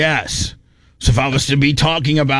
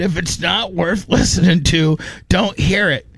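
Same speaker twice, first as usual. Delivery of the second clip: mocking, pitched up; 4 semitones higher than usual. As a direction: repeat it back high and mocking. Repeats the line higher, mocking.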